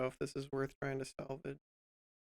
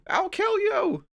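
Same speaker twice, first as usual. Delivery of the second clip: very high, slow shrieking rage; berserk rage; 9 dB louder, slower than usual. Pretend. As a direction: shriek the threat like a maniac. Yelling at the program.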